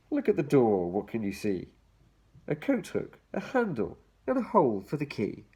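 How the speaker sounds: lilting read-aloud for little ones; reading to children. Acted. Reading picture book to children.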